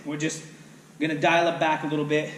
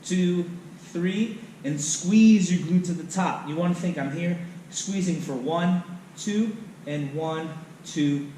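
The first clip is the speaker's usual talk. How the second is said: slow tempo count; slower than usual. Shown as a demonstration. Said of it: "count three seconds up".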